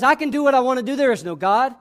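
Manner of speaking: brash, dismissive claim to do as one pleases; arrogant, cynical. Acted. Voice of the wicked defying God, arrogant and cynical. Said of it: "which is arrogant and cynical".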